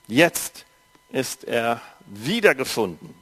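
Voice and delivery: measured storytelling read to a congregation; story narration for a church audience; Bible reading. A narrator's reading. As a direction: read the parable evenly, like scripture. Reads Bible story aloud.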